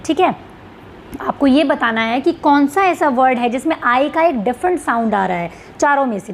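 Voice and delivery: usual speaking voice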